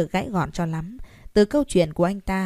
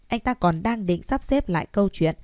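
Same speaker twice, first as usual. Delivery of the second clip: ordinary delivery, nothing marked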